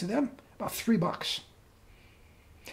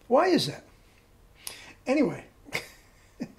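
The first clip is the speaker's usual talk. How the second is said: laughing. Real, not acted. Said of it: "I can't stop laughing".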